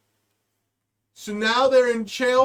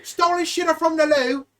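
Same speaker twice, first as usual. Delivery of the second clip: mock dispatcher; 3 semitones higher than usual. Dispatcher radio call acted.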